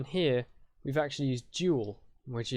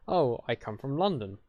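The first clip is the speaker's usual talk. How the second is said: "London" pushed a little louder as the new answer; stress on London; 4 dB louder than usual. Shown as a demonstration. Answering where you come from, extra stress on "London". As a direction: lean on "London" as the answer to the question. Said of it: "You say London with more of stress".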